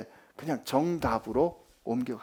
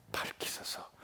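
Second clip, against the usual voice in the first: whisper; 15 dB quieter than usual. Acted. Hushed end of prayer quote.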